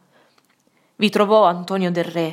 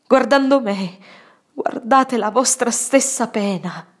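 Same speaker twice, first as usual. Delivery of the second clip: earnest pleading; 5 semitones higher, 3 dB louder than usual. Acted. Pleading at deathbed.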